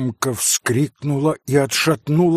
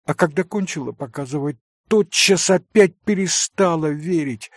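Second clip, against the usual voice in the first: put-on higher, louder young woman pleading in anguish; impassioned heroine, high and louder; Katya, impassioned; 8 semitones higher, 4 dB louder than usual. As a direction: pour out a tormented confession.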